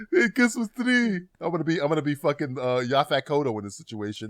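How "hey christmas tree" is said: movie quote voice. Retold or imitated. Quoting the movie line louder.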